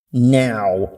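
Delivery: stern command. Acted. Mother orders daughter into the closet, stern. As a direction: cut off the protest with an order.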